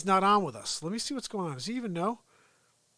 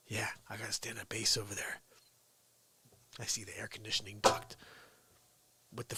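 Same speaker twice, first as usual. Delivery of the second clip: quiet at night; 8 semitones lower, 10 dB quieter than usual. Real, not acted. Family asleep upstairs, whispering at night.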